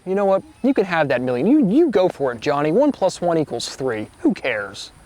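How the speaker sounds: breezy mock encouragement, swinging up high then dropping off; mock dismissive. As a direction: wave them off with exaggerated, sing-song indifference. Mock dismissive reply to prize offer.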